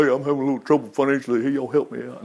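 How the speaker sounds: pleading for help. Retold or imitated. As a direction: imitate someone quietly asking for a handout. Voices someone asking for money.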